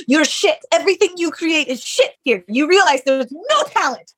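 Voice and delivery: mock yell, pitched well up; retold yelling. Founder mimics the gentleman berating her work, high mock yell. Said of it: "be yelling at me".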